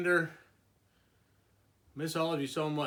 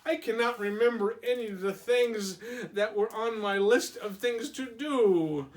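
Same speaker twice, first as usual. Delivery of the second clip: Toad giving up sadly; glum Toad; 6 semitones higher, 4 dB louder than usual. Acted. Toad voiced.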